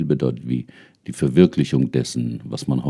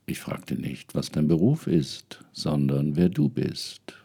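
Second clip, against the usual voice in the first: hushed, whispered spirit voice; whispering elder spirit. Acted. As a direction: whisper it like an ancestor. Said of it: "war die Antwort".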